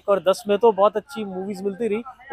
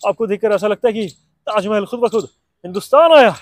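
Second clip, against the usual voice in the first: Hrithik Roshan impression; 5 dB louder than usual. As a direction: charm her in Hrithik's Kaho Naa style. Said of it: "कहो ना प्यार है".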